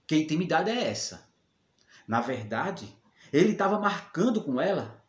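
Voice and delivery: put-on mildly indignant jealous boyfriend, pausing to brood; a touch of comic menace, dropping low and slow to finish; jealous man. Jealous man vowing to show Maria real bread, mock-threatening.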